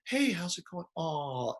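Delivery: soft, sweet phone greeting; snapping from a rant to sweet on the phone; suddenly nice. Retold or imitated. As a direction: switch to gentle and friendly. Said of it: "snap right back into being nice".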